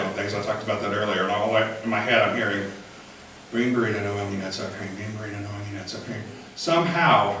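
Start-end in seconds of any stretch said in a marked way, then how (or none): 3.5-6.2 droop it out like a sad cartoon dog; Droopy Dog voice. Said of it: "her voice kinda morphed into Droopy Dog".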